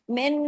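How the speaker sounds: "मिन" with the n hummed through the nose; "मिन" sustained on a nasal n; long ghunna. Shown as a demonstration. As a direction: hold the nasal hum at the end of "मिन". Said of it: "बड़ा गुन्ना भी होगा".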